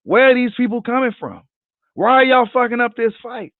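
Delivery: high, incredulous questioning; baffled disbelief. Retold or imitated. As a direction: ask it like you can't believe your ears. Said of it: "I'm scratching my head like".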